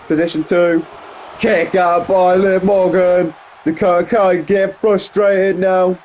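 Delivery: animated wrestling call, lifting on the big moves; excited play-by-play. Real, not acted. Commentator following a kick and kick out, excited play-by-play. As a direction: call the near fall with excitement.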